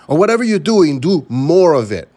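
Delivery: mock scream. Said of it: "motivation screams".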